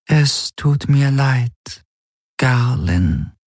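slow, high, otherworldly voice; an eerie apology, drawn out; Schattenhelix voice. A narrator's reading. The Schattenhelix apologizes to Garland, eerie and drawn out.

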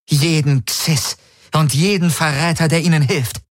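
high, forceful order; commanding villainess. Acted. Ylana ordering her technician to destroy enemies, commanding. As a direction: pronounce a merciless command.

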